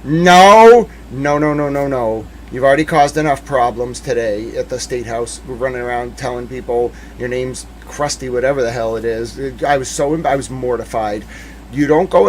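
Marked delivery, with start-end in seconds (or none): 0.0-9.4 retold refusal. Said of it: "I've been like".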